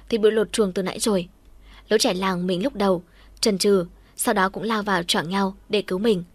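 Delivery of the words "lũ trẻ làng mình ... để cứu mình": usual speaking voice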